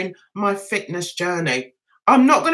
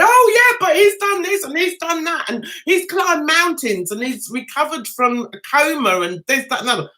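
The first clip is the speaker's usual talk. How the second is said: mocking critic; 4 semitones higher than usual. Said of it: "somebody jumped on me and said".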